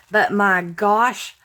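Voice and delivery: a Southern country drawl slipping out; country twang. Real, not acted. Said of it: "that was very country".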